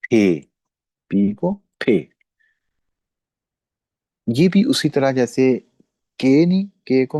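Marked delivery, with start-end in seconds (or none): 0.1-2.1 फे said slowly with a clear f; slow model फे; pronunciation demo. Shown as a demonstration. Teacher to class, modeling फे slowly. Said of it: "हम pronounce करते हैं".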